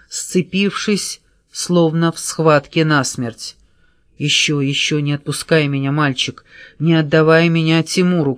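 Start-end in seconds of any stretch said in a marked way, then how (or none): none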